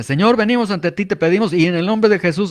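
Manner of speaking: a hint of a rehearsed preacher's chant; sing-song prayer cadence. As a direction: recite it like a practiced, musical prayer formula. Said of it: "mi oración debe tener cierta cadencia".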